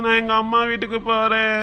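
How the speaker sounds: put-on crybaby complaint; crying. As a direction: wail it like a sulking child. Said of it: "ஏய், அழாதடா".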